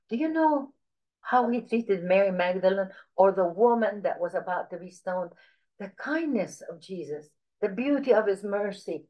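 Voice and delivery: gently retold, wondering storytelling; lightly imitated tender teaching; like mother telling a story. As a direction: tell it tenderly, as a mother would. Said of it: "She would talk to me like that".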